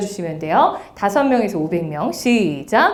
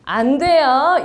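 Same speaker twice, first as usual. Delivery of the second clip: put-on slow, sing-song 그러면 안 돼요 as if to little kids; playful cutesy telling-off; cute, like scolding a toddler; 3 semitones higher, much slower than usual. Shown as a demonstration. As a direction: gently scold a child, drawn out. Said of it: "너무 귀여워요".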